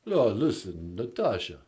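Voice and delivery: Stallone impression. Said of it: "it's Sylvester Stallone".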